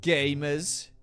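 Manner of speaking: mock-grand gamer roll call; excited greeting. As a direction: hype up the audience. Shouted channel intro greeting.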